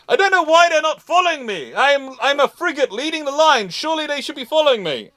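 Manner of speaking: squeaky bewildered frigate captain; puzzled French captain. Retold or imitated. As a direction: play the clueless captain, fast and indignant. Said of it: "the French captain's going".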